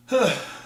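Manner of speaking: loud exhaled sigh; audible huff of breath. Real, not acted. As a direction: heave a short sigh. Exasperated pause over April Fool's jokes.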